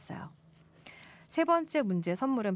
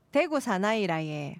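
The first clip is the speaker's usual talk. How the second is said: tentative try at a Daegu accent; Daegu dialect attempt. Shown as a demonstration. Host reading a listener's message, unsure Daegu dialect. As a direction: put on an unsure Daegu lilt. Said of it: "제가 대구 사투리 잘 모르겠어요".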